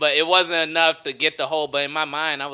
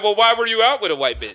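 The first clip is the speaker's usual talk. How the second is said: mock attitude; 5 semitones higher, faster than usual. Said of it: "Black women are more looking like".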